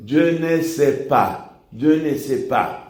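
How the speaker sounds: Je ne sais pas with the S of pas silent, "pa"; careful French, pas ending on the vowel; French said properly. Shown as a demonstration. Teacher showing the French: pas with no S. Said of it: "se dice".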